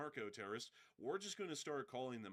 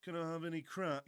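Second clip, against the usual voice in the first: pirate character voice; 4 semitones higher, 6 dB louder than usual. Retold or imitated. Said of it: "He goes".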